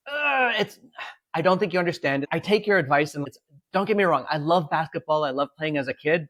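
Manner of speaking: hammed-up groan of a man refusing his talent; exasperated Jordan. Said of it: "And he's like".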